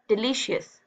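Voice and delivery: "डिलीशियस" with the focus on शियस; stress on last syllable. Shown as a demonstration. Teacher showing the stressed syllable, stress on शियस in "डिलीशियस". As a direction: lean on शियस at the end of "डिलीशियस". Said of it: "शियस पे आप ज्यादा focus".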